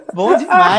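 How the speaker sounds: laughing through the words; can't hold back a laugh; laughing with delight. Real, not acted. Laughing about the memory.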